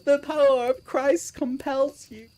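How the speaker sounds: slow, high hammed-up priest line; mock exorcist. Banishing the cucumber, slow mock priest. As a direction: intone it like a movie exorcist.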